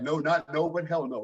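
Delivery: imitating a German-accented mom, pitched a little up; a firm refusal in a light German accent; mom's German accent. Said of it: "in her German accent".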